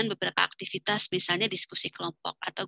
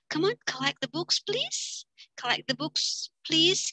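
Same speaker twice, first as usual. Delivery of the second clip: raised coaxing request; collecting books; 7 semitones higher, slower than usual. Shown as a demonstration. Teacher asking students to hand in books, coaxing. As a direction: hurry them along politely. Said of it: "Sambil tangan kita begini".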